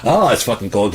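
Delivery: loud high yelp about the cold; cold shock. Retold or imitated. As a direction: gasp it out as the cold water hits. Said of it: "I was like".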